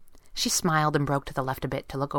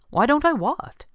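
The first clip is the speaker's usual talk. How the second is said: high, louder puzzled question; confused; 10 semitones higher, 5 dB louder than usual. A narrator's reading. Boss fails to follow her question, confused and high. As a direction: ask it baffled, pitch jumping up. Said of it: "he asked, confused".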